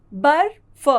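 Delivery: बर्फ said clearly with rising tune, half र before फ; model word. Shown as a demonstration. Teacher demonstrates बर्फ aloud for the class, clear and rising. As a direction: say बर्फ carefully for the children. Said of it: "इसका उच्चारण है बर्फ".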